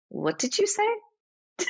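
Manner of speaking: playfully indignant, stretch out each word; indignant challenge. Retold or imitated. She now challenges people herself.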